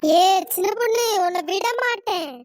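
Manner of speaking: slow, drawn-out menacing call; eerie slow warning; ghostly threat. Acted. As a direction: stretch each word like a haunting ghost. Ghostly threat wakes frightened woman.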